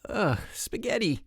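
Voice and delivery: high, falling cry of disgust; exclaiming. A narrator's reading. Mike taping a torn garbage bag, exclaiming in disgust. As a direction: exclaim it with a big drop in pitch. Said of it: "exclaimed Mike".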